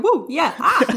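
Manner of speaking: whooping like a rowdy fan; rowdy party animal. Pretend. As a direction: cheer it out, wild and silly. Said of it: "kleine Zwischenrufe machen hier".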